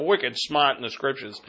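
put-on Boston accent on "wicked smart"; joking Boston accent. Shown as a demonstration. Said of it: "to use my Boston accent".

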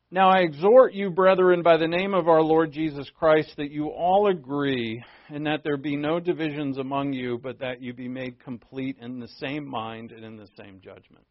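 scripture read out to the church. Acted. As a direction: proclaim the passage to the congregation. Reading scripture aloud.

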